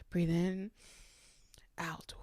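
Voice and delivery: imitating auntie, long pause between breaths, trailing soft; soothing retold breathing cue; calming coach. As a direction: quietly count someone through a breath. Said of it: "Her voice is so calming".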